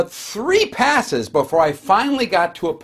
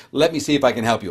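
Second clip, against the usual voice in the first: glad and caring; 5 semitones lower than usual. Retold or imitated. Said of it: "Leslie says".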